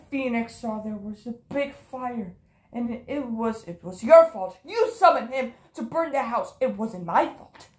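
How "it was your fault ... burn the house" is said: accusing. Acted. Accusing the other character.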